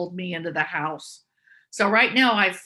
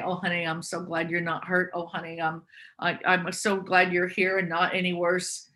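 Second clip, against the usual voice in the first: put-on softer, tender reassurance to a frightened child; gentle reparenting parent; 3 dB quieter than usual. A loving parent comforting a scared child, softly tender. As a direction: soothe her like a loving parent would. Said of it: "a reparenting parent might say".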